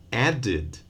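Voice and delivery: added as two syllables, AD-id; added with a clear vowel before the last d; extra syllable. Shown as a demonstration. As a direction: sound the id ending in added. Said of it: "with an extra syllable".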